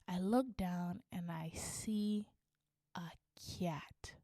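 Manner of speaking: whispered, very soft dread; hushed reveal. Retold or imitated.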